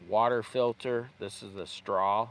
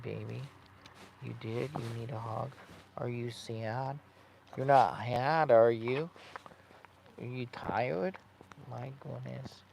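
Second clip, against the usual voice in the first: gentle coaxing questions to the dog. Real, not acted. Cooing to the dog.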